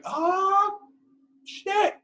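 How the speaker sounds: high, loud mock sergeant yell; hammed-up drill yell. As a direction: yell it like a sergeant kicking them off the bus. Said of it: "He goes like".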